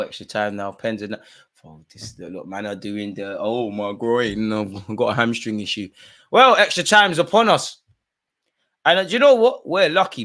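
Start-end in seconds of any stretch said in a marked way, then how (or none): 3.4-5.9 slow, whiny fake-injury moan; mock injured player. Mocking players faking injury. 6.3-10.2 much higher and louder, hyped; excited. Real, not acted. Excited as extra time starts.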